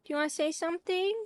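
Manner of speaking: quick, high question to a dog; high, rising doggy-talk; pet talk. Real, not acted. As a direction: ask your dog in a high little voice. Asking the dog to speak.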